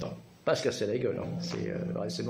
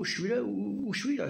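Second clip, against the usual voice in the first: confused; 10 semitones higher than usual. Retold or imitated. Retells his confusion on waking.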